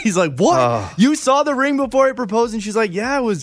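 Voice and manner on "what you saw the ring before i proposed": mock stunned, high-pitched, shocked disbelief. Retelling a husband learning his wife saw the ring early, imitating a shocked reaction. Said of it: "And he was like shocked".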